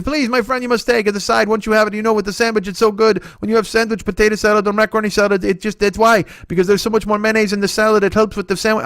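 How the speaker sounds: put-on high, eager accented old deli man; high eager voice of the old deli owner pushing a huge sandwich. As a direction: gush like a proud old shopkeeper. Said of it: "he's being so nice".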